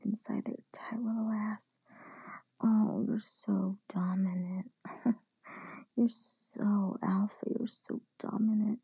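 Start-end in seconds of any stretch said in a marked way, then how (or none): 2.6-8.8 slow, drawn-out mock admiration; mocking whisper. Mistress teasing partner about being dominant, slow mocking whisper. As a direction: stretch out the sarcastic praise in a whisper.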